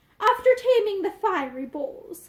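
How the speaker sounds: plain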